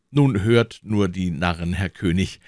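a hint of scornful anger; angry cry. Diogenes scoffs at the fools before the king, mild anger. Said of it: "rief Diogenes erzürnt aus".

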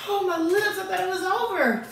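high, pained whine; pained squeal. Real, not acted. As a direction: squeal from burning lips. Lips burning again.

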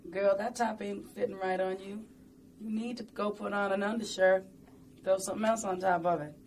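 lightly voiced Southern grandmother scolding; a hint of a bossy Southern grandma. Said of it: "I had a grandmother who talked like that".

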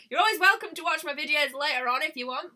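sing-song it warmly to the viewer; cheery sign-off. Real, not acted. Saying goodbye to Amanda, a loud cheery welcome.

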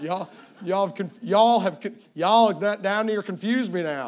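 playful, exaggerated Southern accent. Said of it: "throw on some southern accent".

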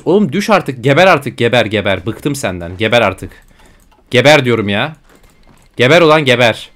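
loud, furious commands; angry yelling. Real, not acted. Gamer cursing the enemy nation, loud and furious. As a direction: bark at the enemy to die.

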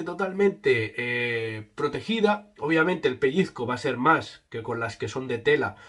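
speaking through balaclava; through a face mask. Real, not acted. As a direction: mouth covered by mesh. Seen 2: Mesh balaclava covers mouth throughout; the mic sits outside the mask.

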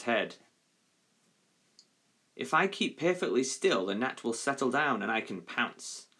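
measured, expressive storytelling; story reading to children. Acted. Teacher reading the gnat and lion story to pupils, expressive narration. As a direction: read it out clearly, line by deliberate line.

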